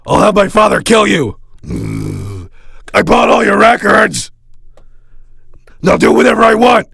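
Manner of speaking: a spoiled fan yelling orders at the rock star; bratty yelling demand. Acted. Fan bullying celebrity to perform.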